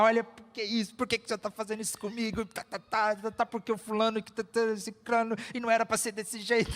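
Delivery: high-pitched griping tirade, played up; mock complaining. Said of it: "doido pra chegar em casa e reclamar".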